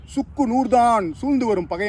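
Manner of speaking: vow. Acted. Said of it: "சூளுரைத்தான்".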